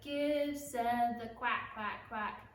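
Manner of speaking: spoken demo swapping lyrics for quacks; lightly quacked lyric demo; quacking instead of words. Shown as a demonstration. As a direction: show the kids the quack swap. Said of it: "So it'll be like".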